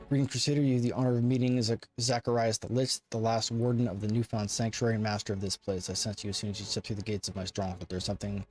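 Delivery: proud undead lich lord, commanding; ancient rasping undead king. Acted. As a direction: speak as an imperious old lich. Voices the Lich character.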